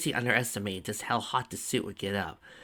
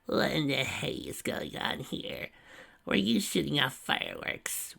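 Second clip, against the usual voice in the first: annoyed; 6 semitones higher, slower than usual. A narrator's reading. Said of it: "Broker asked, annoyed".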